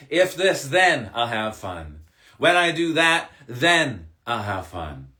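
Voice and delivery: mocking excuse voice. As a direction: drag out the excuse as a mild parody. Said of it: "Stop with the".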